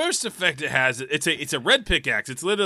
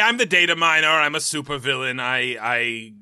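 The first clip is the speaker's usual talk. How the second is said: lightly voiced gloating supervillain; a hint of cartoon villain menace; slow theatrical villain menace; 3 semitones lower than usual. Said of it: "you sound like a villain that's gonna be in".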